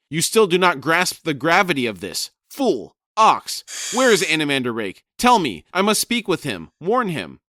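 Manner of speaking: loud, high furious squawking shout; shouting raven. Acted. Crone shrieking at Brood to find Rake, loud and high. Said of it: "She shouted".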